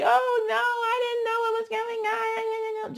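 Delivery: high mock-innocent excuse. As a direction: play dumb in a high voice. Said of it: "L C K is just like".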